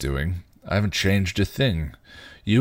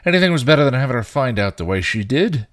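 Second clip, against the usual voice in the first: angry rant; 6 semitones higher, 5 dB louder than usual. Acted. Spike blasting Giles in argument.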